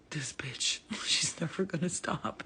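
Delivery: hushed, whispered complaint; whispered aside. Retold or imitated. Friends complaining about her under their breath, whispered. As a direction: friends muttering behind her back. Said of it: "they'd be like".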